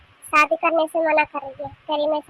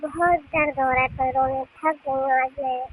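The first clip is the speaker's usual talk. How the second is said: weary groaning complaint; 3 semitones lower than usual. Acted. Mother-in-law home with aching legs, wearily complaining. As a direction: sigh the words out, worn out and aching.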